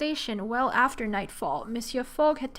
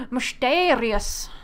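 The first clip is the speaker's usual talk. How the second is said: slow, louder, spooky-toned exclamation; dramatic mysterious; 5 dB louder, much slower than usual. Acted. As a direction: draw it out slowly like a teaser. Reacting to darkening train scene.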